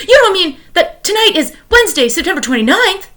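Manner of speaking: high, laughing, thrilled disbelief; excited. Acted. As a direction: bubble over with glee. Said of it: "in an excited tone".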